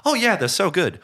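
high, loud, over-the-top mimicry of American accent; hammed-up comic impression of an American accent; over-the-top British-accent gag. Comic retelling an awards host's jab at British actors, over-the-top accent. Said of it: "she's, like, doing that over the top".

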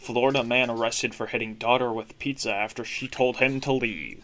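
a touch of TV anchor read; newscaster voice. Pretend. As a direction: read the headline like a news anchor. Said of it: "a newscaster voice".

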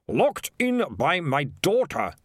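slow and even; the mayor answers Ralphman calmly. Acted. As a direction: state it calmly, unbothered. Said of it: "said the mayor calmly".

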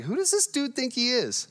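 indignant, mildly huffy fisherman; a hint of wounded pride; proud and puffed up. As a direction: bristle at being told how to fish. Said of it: "pride and puffiness".

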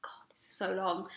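retold thought in a whisper; whispered inner thought. Narrator quoting her fed-up thought to a friend, whispered. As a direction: whisper it under your breath. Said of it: "and I was just like".

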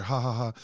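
spoken mock laughter; fake staged laugh. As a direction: fake a scripted laugh, syllable by syllable. Mocking staged on-screen laughter.

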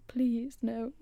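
high, loud please then whispered no; pleading whine. Retold or imitated. To the nurse, a high whining plea. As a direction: beg them to let you go home. Told she must stay in.

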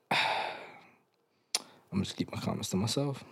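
quiet, quick aside; subdued restraint. Real, not acted. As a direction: say it softly to yourself, holding back. Holds back, repeats the same line.

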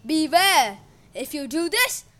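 loud menacing warning. A narrator's reading. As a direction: warn him darkly. Uranus threatening.

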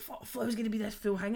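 laughing through the words. Real, not acted. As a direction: laugh while telling it. Laughing recalling coming out.

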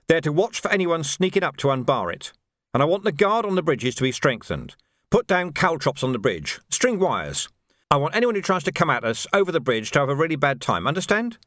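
commander giving orders. Acted. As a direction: lay down orders, checking they're understood. Vimes gives orders.

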